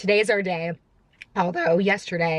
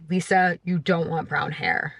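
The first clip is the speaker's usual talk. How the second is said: self-scolding; 3 semitones lower than usual. Pretend. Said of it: "talking herself out of it".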